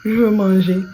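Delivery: loud, sing-song Cameroonian "Je veux manger"; Cameroonian accent. Retold or imitated. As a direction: belt it like a little tune in Cameroonian French. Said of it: "ça ressemble à une chanson".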